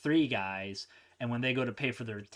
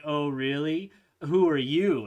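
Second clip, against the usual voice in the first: mocking henchman; 3 semitones higher, 7 dB louder than usual. Henchmen mock the hero.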